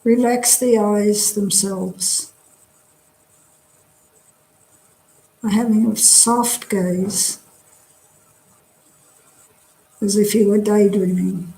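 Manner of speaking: calm, measured meditation guidance with long pauses; guided meditation. Real, not acted. Teacher leading a drop-in group through a body scan, guided meditation. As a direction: guide them gently through relaxing, leaving space after each phrase.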